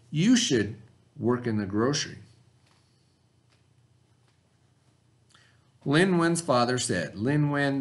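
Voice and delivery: steady storybook read-aloud for the class; reading aloud to children. Acted. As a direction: read the story to your students, unhurried. Teacher reads story aloud to class.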